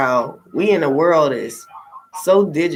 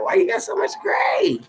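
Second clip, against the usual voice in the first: high, squeaky mock disbelief; mock shocked question; 3 dB quieter than usual. Mimicking nosy people who spot her gray hair, mock shocked squeak.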